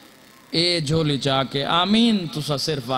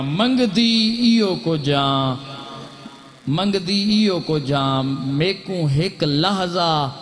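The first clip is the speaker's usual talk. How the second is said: imitated plea; 2 semitones higher than usual. Voicing the sister's plea in lament.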